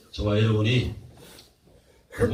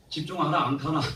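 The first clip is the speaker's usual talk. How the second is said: higher-pitched Gyeongsang accent; Gyeongsang dialect; 4 semitones higher than usual. Shown as a demonstration. Preacher urging focus in regional speech, Gyeongsang accent. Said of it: "경상도 말".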